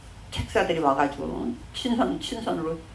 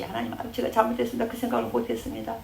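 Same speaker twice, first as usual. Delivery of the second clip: a touch of a contrite prayer, quicker; mock contrite plea; pleading repentance; 5 semitones higher than usual. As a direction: mildly act out a sinner begging forgiveness. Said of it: "막 그래야 돼".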